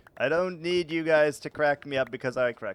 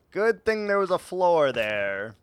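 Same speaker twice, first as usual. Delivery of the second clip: louder, rising "Good"; louder punchline; 4 semitones higher, 4 dB louder than usual. Shown as a demonstration. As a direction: say it out for the audience. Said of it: "repeated differently".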